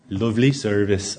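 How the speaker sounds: half-hearted Irish lilt; attempted Irish accent. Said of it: "I can't do the accent".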